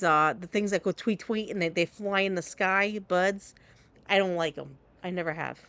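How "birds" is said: "buds" for birds, the r dropped; trouble saying birds. Shown as a demonstration. Confessing the one word they get teased for, birds pronounced "buds". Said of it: "I have trouble saying".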